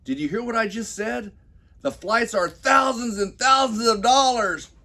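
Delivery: high shrieking mock wife; hammed-up frantic wife yelling; exasperated shout. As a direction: shout it at him in disbelief. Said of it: "she blares out".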